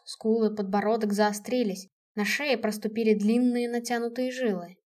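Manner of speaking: usual speaking voice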